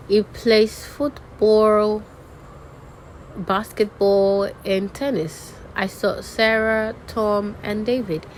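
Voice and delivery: "football", "basketball" held long and up; listing intonation. Shown as a demonstration. Teacher demonstrating lists, slow items held open until the last. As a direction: stretch each item like "football", close on the last. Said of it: "for listing items".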